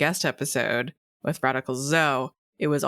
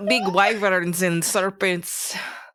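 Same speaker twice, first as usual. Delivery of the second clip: put-on cartoon accent, higher pitch; 5 semitones higher, 4 dB louder than usual. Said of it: "It's giving kind of like Rolf from Ed".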